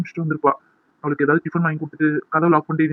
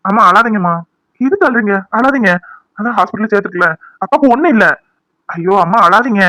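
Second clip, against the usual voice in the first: urgent consoling; 2 semitones higher, 4 dB louder than usual. Acted. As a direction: urge mother to stop crying. Son consoling crying mother. (அம்மாவை சமாதானப்படுத்தும் உரத்த குரல்)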